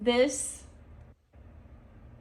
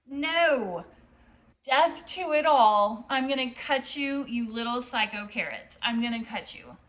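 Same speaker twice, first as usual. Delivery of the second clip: mock fierce defiance; 5 dB louder than usual. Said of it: "you're like".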